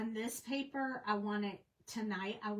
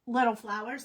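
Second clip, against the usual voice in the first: hiccups; 4 dB louder than usual. Real, not acted. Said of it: "I'm sorry, I have the hiccups".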